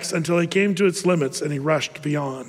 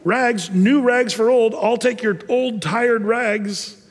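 slow peddler's call; drawn-out street cry; 4 semitones higher, slower than usual. Acted. Ragman calls out slowly to the neighborhood.

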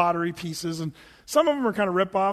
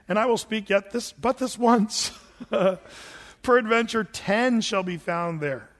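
scripture reading. Acted. Reads KJV scripture.

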